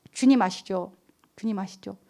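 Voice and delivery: soft, low-pitched prayerful appeal; quiet prayer. Real, not acted. Pastor leading listeners into closing prayer, quiet and pleading. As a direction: let the voice sink gently into prayer.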